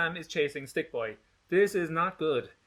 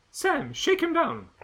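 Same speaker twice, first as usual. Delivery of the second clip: cold command; 14 semitones higher, slower than usual. Acted. Gretchen ordering Sam.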